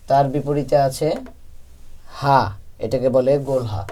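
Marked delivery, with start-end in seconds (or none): 2.2-2.4 light, thin "হা"; thin natural sound. Shown as a demonstration. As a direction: say "হা" with a natural, unpressed throat. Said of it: "আওয়াজ চিকন হবে".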